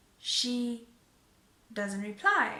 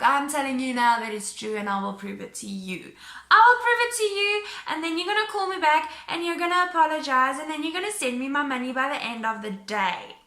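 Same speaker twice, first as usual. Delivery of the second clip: firm retold threat; 3 semitones higher, 7 dB louder, faster than usual. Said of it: "And I'm like".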